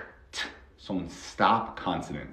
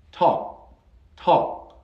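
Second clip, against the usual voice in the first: loud demo; 9 semitones higher, 6 dB louder than usual. Shown as a demonstration. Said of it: "En lugar de you have to talk".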